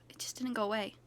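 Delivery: fast, sighing whisper. Acted. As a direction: breathe it out defeated. Sighed whispered confession.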